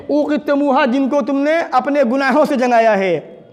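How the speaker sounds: high, sustained sermon voice; impassioned preaching. Real, not acted. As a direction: carry the summons out to the congregation. Preaches with raised voice. (ऊँची आवाज़ में जोशीली तक़रीर)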